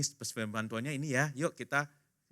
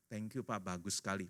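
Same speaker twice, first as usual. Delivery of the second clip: soft, lowered supportive praise; gentle encouragement; 5 semitones lower, 10 dB quieter than usual. Acted. Wife praising husband after his prayer, encouraging. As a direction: praise him quietly and tenderly.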